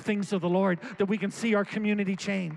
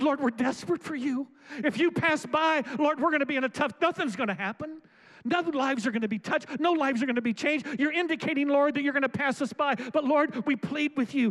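desperate plea; 5 semitones higher than usual. Retold or imitated. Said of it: "a sense of desperation and tone in their voices".

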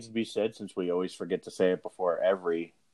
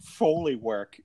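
put-on British accent; 5 semitones higher than usual. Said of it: "You always do the British".

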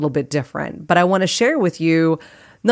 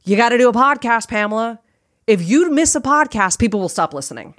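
higher-pitched nagging inner voice; nagging Ursula; 5 semitones higher, faster than usual. Retold or imitated. Inner critic warns podcaster about missing an episode, nagging. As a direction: scold like the critic in your head. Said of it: "Ursula last week was in my head telling me".

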